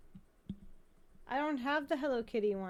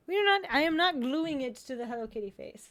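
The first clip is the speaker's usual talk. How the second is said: laughing refusal; 3 semitones higher, 7 dB louder than usual. Real, not acted.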